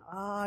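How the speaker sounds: mild mock wail, high and soft; imitated child's wail. Dad retelling his little girl's tumble, softly imitated wail. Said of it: "she was inconsolably crying".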